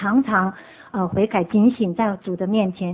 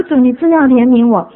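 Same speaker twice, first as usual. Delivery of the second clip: louder, earnest cry for mercy; earnest plea; 7 dB louder than usual. Retold or imitated. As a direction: begs the Lord for mercy in earnest. Repeats plea to the Lord.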